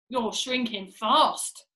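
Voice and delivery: drawn-out warning, leaning on "fast"; slow taunt. Acted. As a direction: stretch "shrinking" and land firmly on "fast". Mr Twit taunting, first statement.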